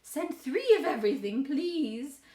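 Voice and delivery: high, loud room-service call; nanny ordering. A narrator's reading. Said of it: "calls room service and says".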